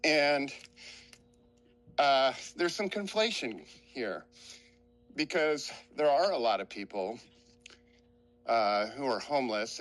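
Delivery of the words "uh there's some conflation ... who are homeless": out of breath. Real, not acted. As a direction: talk while out of breath from the hill. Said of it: "I sound a little out of breath".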